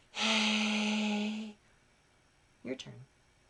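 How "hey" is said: airy, breathy voice with lots of air. Vocal exercise switching between breathy and pinchy sounds, breathy airy voice. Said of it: "So let's go back to breathy".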